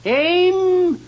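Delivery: high, very loud command; loud military order; shouted command. Acted. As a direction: yell it at the top of the lungs. Firing squad commands.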